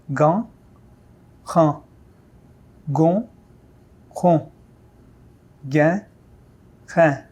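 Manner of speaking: ran, ron, rein with a French throat r; uvular r. Shown as a demonstration. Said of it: "Let's repeat".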